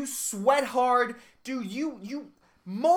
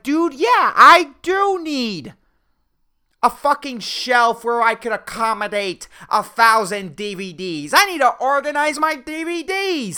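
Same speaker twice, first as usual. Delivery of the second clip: louder, eager mock voice; gullible buyer; 5 dB louder than usual. Mocking plane shoppers, a louder eager dope. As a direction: play the sucker, earnestly convinced. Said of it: "and they're like".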